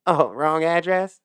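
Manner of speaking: high, slow mocking whine; mocking lady voice. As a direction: mimic her slowly and high. Mocking her question again.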